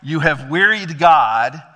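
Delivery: fed up. Retold or imitated. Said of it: "He's like".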